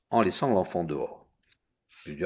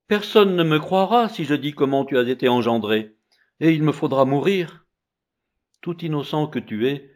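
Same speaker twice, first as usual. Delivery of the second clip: lamenting mother; 4 semitones higher, 5 dB louder than usual. Acted. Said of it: "Elle fondit en larmes".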